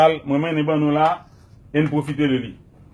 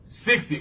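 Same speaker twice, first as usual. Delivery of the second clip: sixty with SIX stressed; stress on first syllable; 2 semitones higher, 4 dB quieter than usual. Shown as a demonstration. Teacher echoing the student, stress on six in sixty. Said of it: "mete straight la sou six".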